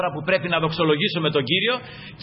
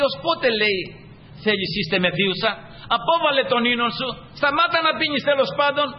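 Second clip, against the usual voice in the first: scolding priest; 6 semitones higher than usual. Retold or imitated. Eli rebukes the praying woman, high scolding. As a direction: scold her as if she were drunk.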